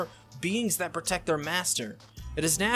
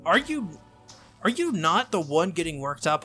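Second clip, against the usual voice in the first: acted indignant sputter; 4 dB louder than usual. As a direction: start a retort, affronted. Saber starts an indignant retort.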